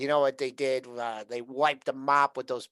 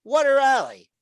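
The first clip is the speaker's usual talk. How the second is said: excited; 7 semitones higher, 6 dB louder than usual. Real, not acted. Excited about rally.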